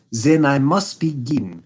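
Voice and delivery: a hint of a haughty German king; Bohemian king. King speaks.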